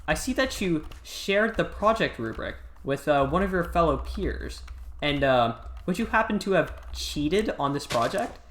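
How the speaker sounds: lightly mimicked condescending accusation; condescending teacher. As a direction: put on a teacher talking down to a pupil. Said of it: "talks to everybody really condescendingly".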